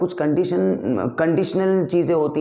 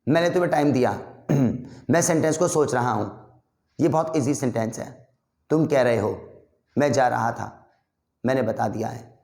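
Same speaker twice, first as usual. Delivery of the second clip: slow drill. Shown as a demonstration. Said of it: "मैं बहुत धीरे धीरे बोल रहा हूँ".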